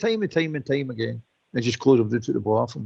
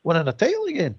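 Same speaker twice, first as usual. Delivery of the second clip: incredulous; 4 semitones higher than usual. Retold or imitated. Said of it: "All us older guys are going".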